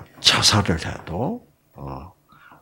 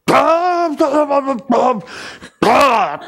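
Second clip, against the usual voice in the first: dismissive huffs; much slower than usual. Retold or imitated. A gruff Gyeongsang husband brushing off his wife, scoffing. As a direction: brush her off with curt scoffs.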